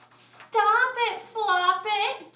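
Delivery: high, loud scolding hen; Chicken scolding. A narrator's reading. Mother hen scolds the bouncing bunny, high and sharp. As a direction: snap at him like a fussy hen. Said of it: "Chicken said".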